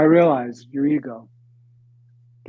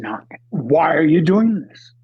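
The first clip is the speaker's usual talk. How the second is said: louder, pressing demand; insistent self-question; 3 semitones higher, 6 dB louder than usual. Retold or imitated. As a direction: push the question hard. Retold inner voice repeating question.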